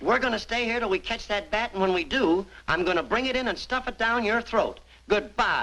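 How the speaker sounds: slow, high-pitched, cheerful, nice-sounding menacing tone. Threatening to stuff a bat down a boss's throat: aggressive threat that sounds happy. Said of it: "he just sounds so happy and just nice".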